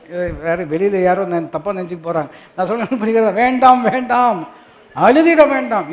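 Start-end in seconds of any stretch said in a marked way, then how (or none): 3.3-5.9 raised, loud preaching plea; emphatic plea. Acted. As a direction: draw out each word, high and strong. Preacher urges listeners not to weep.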